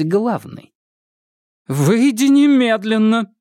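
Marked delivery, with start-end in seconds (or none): 1.7-3.3 higher, louder, slow furious order; raised voice. Acted. Irma orders her sister out, higher and louder. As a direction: hammer out немедленно as a command. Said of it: "Ирма повысила голос".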